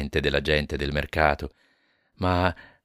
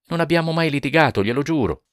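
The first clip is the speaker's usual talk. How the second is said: higher, earnest plea of innocence; pleading husband; 10 semitones higher, 4 dB louder than usual. Acted. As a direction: swear it to him, a little raised. Jonas protests to inspector.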